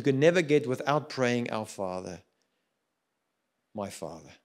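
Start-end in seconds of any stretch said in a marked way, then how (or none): 1.5-4.3 much softer and lower, murmured prayer; hushed prayer. Retold or imitated. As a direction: pray it almost under your breath. Quoting a quiet prayer.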